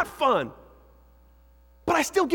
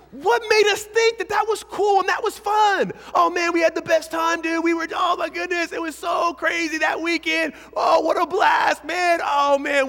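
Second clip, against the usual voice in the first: mock party bragging; 4 semitones higher than usual. Pastor mocks a teen bragging about a wild weekend, hyped. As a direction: ham up a hyped partier reliving it.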